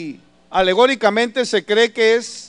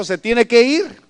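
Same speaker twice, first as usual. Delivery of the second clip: stern order; 5 semitones higher, 7 dB louder, slower than usual. Retold or imitated. Guard orders him away.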